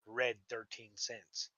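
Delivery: mock grief. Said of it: "how can I show anybody my portfolio".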